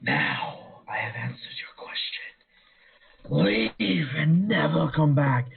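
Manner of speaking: slow keening banshee command; mournful keening wail. Acted. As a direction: wail it out slowly, like a mourning spirit. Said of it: "mournful keening wail".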